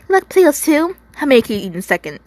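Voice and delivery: high, loud start, then rushing; eager kid firing questions; childlike excitement. A narrator's reading. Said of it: "it was excitement, and a child's excitement".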